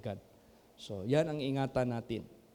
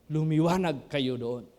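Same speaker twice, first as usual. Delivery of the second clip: rousing exhortation; 5 dB louder than usual. Real, not acted. Preacher exhorts congregation to shine.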